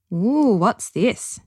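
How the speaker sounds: curious delighted hello; delighted greeting. Acted. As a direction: savour the smell as you greet him. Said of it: "she said by way of greeting".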